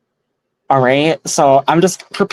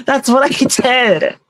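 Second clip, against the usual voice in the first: witchy voice; 10 semitones higher, slower than usual. Shown as a demonstration. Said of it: "it sounds like a wicked witch laughing".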